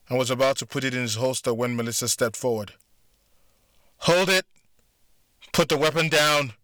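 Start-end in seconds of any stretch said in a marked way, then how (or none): 4.0-6.5 loud, high order; commanding shout. Acted. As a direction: bark the command. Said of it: "she ordered".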